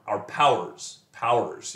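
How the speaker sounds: "powers" squeezed into one syllable; run-together syllables. Shown as a demonstration. Teacher fitting the word to the meter, "powers" as one syllable. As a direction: say "powers" quickly, as a single beat. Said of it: "read it quickly enough".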